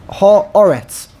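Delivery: Haaretz said clearly as a word to count; careful example word. Shown as a demonstration. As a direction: present Haaretz deliberately, ha then aretz. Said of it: "Take a word".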